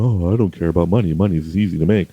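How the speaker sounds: lightly voiced pompous braggart, airy and dismissive; pompous rich guy. Mocking himself to listeners as a pompous money snob. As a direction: shrug off money like a smug big shot. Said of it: "sometimes I sound like a pompous".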